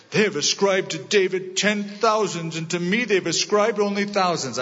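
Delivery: put-on whiny, sulky boy king; pouty voice. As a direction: pout it out like a spoiled king. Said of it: "I have to do it in that pouty voice".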